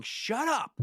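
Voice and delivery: high-pitched exasperated yell, dragging out the last word; mock yelling. Runner fed up with on-screen Peloton instructors, mock yelling. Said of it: "I'm just yelling".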